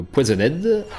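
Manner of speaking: put-on poisonnade said lightly with an English accent; a quick mock English accent on poisonnade. Telling a teammate about the poison attack, in a light English accent. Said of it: "avec mon accent anglais".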